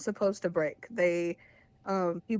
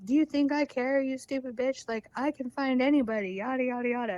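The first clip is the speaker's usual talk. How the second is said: higher-pitched, half-strength imitation of his yelling; mock screaming; 5 semitones higher than usual. Imitating boyfriend insulting her, mild mock screaming. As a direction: retell his angry rant with a raised pitch. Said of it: "he's, like, screaming at me".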